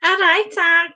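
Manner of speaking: attempted accent that slips into Scouse; Liverpool accent. Cohost attempting Birmingham, comes out a Liverpool accent. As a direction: try an accent and land in Liverpool. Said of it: "that's Liverpool".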